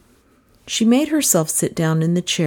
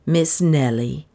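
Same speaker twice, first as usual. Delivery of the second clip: slow, timid maid's call; lightly voiced anxious maid; Lizzie the maid. Maid Lizzie calling to her mistress, timid.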